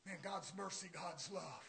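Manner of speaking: mock Joel Osteen. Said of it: "Joel Osteen says".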